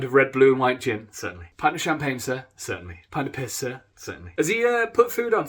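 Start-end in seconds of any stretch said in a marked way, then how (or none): 1.1-1.5 flat servile reply. Acted. Bartender serving orders. 2.6-3.0 flat servile reply. Acted. Bartender serving orders. 3.9-4.3 flat servile reply. Acted. Bartender serving orders.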